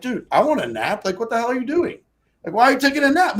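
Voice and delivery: retold anger. Runner fumes at buddy asleep on the grass, rising irritated rant. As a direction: vent at the napping runner. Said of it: "I'm angry".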